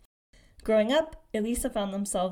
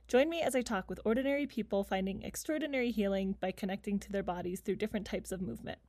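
measured, softer scripted intro read; scripted podcast intro; 7 dB quieter than usual. Real, not acted. Host introducing the podcast to listeners, scripted intro read. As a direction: read the show intro evenly, slightly softly.

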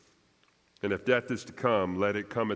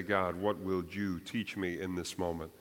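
hushed, much softer and lower plea; soft prayer; 5 semitones lower, 8 dB quieter than usual. Pretend. Preacher softly voicing the congregation's prayer to God. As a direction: pray it quietly, humbly.

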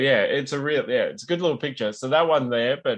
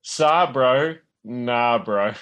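put-on Kiwi accent; 4 dB louder, much slower than usual. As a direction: say it like a New Zealand bloke. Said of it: "I'll try to do this in a Kiwi accent".

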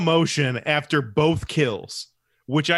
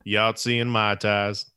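put-on Alabama accent; 5 semitones lower, slower than usual. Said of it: "to perfect his accent".

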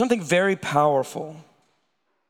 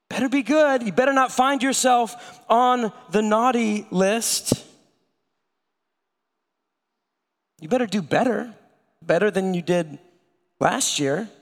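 mock stern warning; 4 semitones higher than usual. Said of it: "we say, maybe in our own heads".

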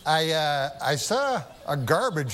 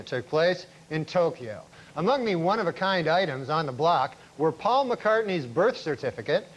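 deadpan newscast delivery; news anchor read. Acted. Comic anchor reporting on Oscar night, news read. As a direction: announce it like the evening news.

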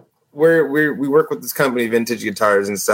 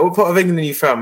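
imitated English accent, slightly raised; 4 semitones higher, faster than usual. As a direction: play a curious English customer. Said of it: "when English people come".

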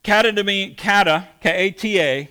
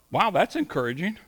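mock-impressed, lilting and softer; sarcastic; 5 dB quieter, faster than usual. Preacher recalls reacting to a threatening billboard, sarcastic. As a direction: dryly pretend to be encouraged.

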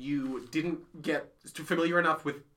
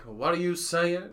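southern Poe voice; slower than usual. Retold or imitated. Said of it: "rock up in these scenes and be like".

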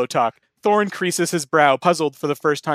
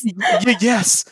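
higher-pitched stammered yes; stammering; 8 semitones higher, slower than usual. A narrator's reading. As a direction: stumble on the first sound before getting it out. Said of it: "The hobbit stammers out".

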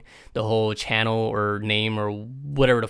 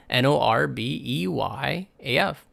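spelled out; 2 semitones higher than usual. Shown as a demonstration. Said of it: "B as in burrito".

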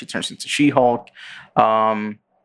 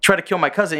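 higher, quick objecting voice; lightly voiced She-Hulk objecting; 9 semitones higher, faster than usual. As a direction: protest fast in a high voice. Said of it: "she's like".

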